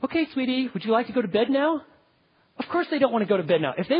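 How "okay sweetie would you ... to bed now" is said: mock sugary coaxing question; gently asking permission; asking sweetly. Shown as a demonstration. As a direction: ask like a pushover parent, sweetly. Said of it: "Don't say".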